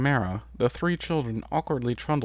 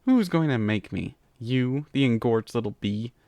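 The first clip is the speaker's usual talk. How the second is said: retort. Acted. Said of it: "Tirek retorted".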